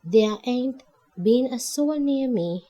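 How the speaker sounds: sighing. Acted. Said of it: "Abigail sighed".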